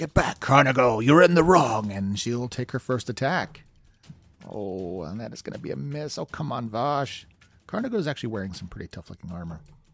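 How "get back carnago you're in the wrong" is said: full-volume, high, very loud shout. Narrating a game fight, a character shouts at a tough opponent: shouting. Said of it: "she just shouts out".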